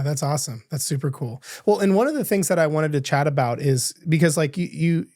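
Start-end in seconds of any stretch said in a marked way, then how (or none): none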